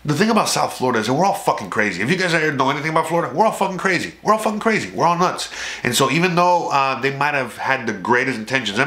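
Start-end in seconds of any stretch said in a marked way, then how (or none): 3.3-5.5 emphatic building insistence. Real, not acted. Repeats the claim, rising each time.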